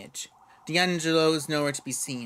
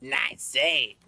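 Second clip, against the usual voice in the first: low gravelly gangster voice; 3 semitones lower than usual. Acted. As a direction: rasp it out like an old mobster. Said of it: "the gravely voice".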